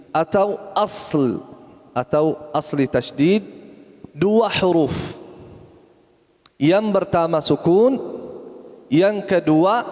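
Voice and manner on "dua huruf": dua drawn out slowly, stressed. Shown as a demonstration. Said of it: "Artinya tasydid". (dua diucapkan pelan dan tegas)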